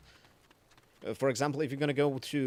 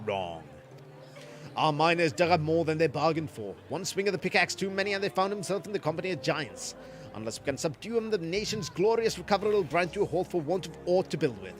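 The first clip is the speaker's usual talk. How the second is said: lightly voiced gruff old miner; a hint of a folksy old man; Painted Mesa voice.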